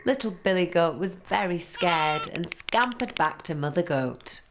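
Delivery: usual speaking voice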